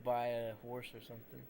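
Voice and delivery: put-on Russian accent voice. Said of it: "do my Russian voice now".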